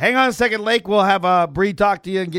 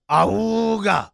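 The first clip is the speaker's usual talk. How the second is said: imitated car horn. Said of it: "like that".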